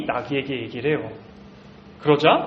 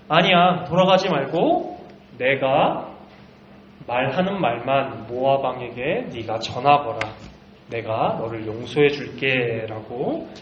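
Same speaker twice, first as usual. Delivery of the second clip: lower, slow and reassuring angel; gentle forgiveness; 3 semitones lower than usual. Acted. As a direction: calmly grant pardon, slowing down. Angel forgives repentant Balaam. (낮고 느리게 용서하는 천사의 부드러운 목소리)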